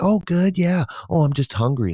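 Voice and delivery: very high imitation mouse chit-chat; puppet mouse voice. Mouse sister chatting back, high puppet voice. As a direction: play a little cartoon mouse making small talk. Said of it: "start to have the conversation like".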